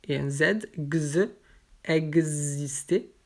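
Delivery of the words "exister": "exister" slowly, with x voiced as gz; "exister" said slowly as "eg-zister". Shown as a demonstration. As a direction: draw out the gz in "exister". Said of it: "donc avec un G".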